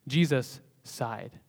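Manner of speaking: Jesus sighed drawn out very slowly; slow, weighty. Shown as a demonstration. Preacher stressing the verse for the congregation, slow and heavy. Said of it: "not some throwaway line".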